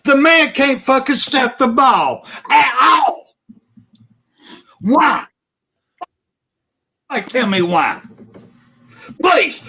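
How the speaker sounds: real heated tirade, shouting in spots; angry rant at the center; wound up. Real, not acted. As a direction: vent at the coach, all fired up. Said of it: "Sorry, I got wound up".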